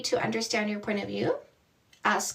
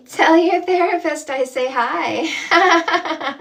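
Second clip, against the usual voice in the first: louder and slower, leaning on tell; slow loud repeat; 4 semitones higher, 8 dB louder, slower than usual. Shown as a demonstration. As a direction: stretch it out and project each word.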